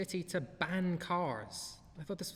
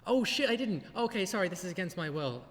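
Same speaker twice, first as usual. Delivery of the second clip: imagined drug dealer; 5 semitones higher than usual. Retold or imitated. Vlogger imagining a suspect in interrogation, higher hammed-up mock. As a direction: ham up a suspect remembering the magic words. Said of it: "you can just imagine fucking sitting in the interrogation room".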